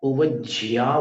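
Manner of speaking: "ओवज्झिया" with an extra i-glide before the final a; variant pronunciation. Shown as a demonstration. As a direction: say "ओवज्झिया" ending in jhi-ya. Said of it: "बोलते हैं कुछ लोग".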